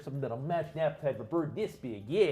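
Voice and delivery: lightly voiced big, friendly Minnesotan dwarf; helpful shopkeeper with a hint of Minnesotan; large friendly Minnesotan. Dwarf offering to feed the bird, lightly voiced friendly Minnesotan. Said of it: "sounding like a very large, friendly man".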